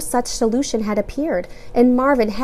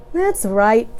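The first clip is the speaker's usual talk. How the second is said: easygoing; 3 dB louder than usual. A narrator's reading. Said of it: "Carl said easily".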